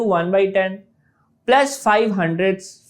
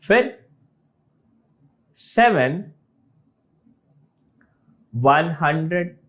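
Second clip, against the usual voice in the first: slow, "टू one टेंथ्स, seven one hundred, four one thousand" with long pauses; slow place-value reading; slower than usual. Shown as a demonstration. Teacher slowly showing the place-value reading. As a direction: spell out each place value, drawn out and deliberate. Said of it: "इसका एक और तरीका है जिसको कैसे पढ़ेंगे".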